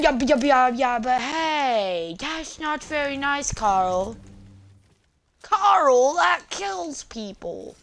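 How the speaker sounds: high, slow mock scold, Carl's name shot up loud; a silly drawn-out cartoon scold; mock Llamas and Hats voice. Quoting Llamas with Hats to Carl, slow and high.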